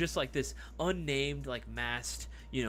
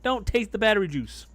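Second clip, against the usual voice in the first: loud plea; 8 semitones higher, 7 dB louder than usual. Real, not acted.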